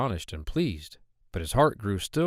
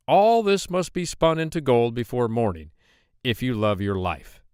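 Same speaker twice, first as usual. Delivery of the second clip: stern king; 4 dB louder than usual. Acted. King commands the miller's daughter.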